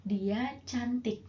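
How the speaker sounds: slow translation. Shown as a demonstration. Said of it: "apa dong artinya?".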